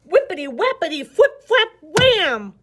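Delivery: high, loud, fast tumbling sound words; crashing fall. A narrator's reading. Narrator acting the snake's tumble through trees. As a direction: bang out the crash.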